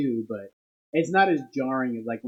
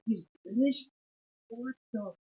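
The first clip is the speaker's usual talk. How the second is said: surprised; 9 semitones higher, 4 dB quieter than usual. Retold or imitated. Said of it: "I was like".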